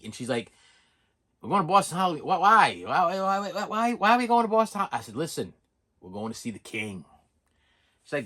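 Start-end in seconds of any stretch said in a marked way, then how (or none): 1.4-4.9 high, stammering run of whys; flustered questioning wife. Retold or imitated. Wife asks husband about the Boston trip, baffled and high. Acting out wife's surprised questioning. 5.2-7.0 low, soft, weighty announcement; hushed reveal. Retold or imitated. Husband reveals to wife they're seeing the king, hushed.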